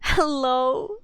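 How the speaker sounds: laughing hello, loud and high; laughing call. Real, not acted. Calling out after falling.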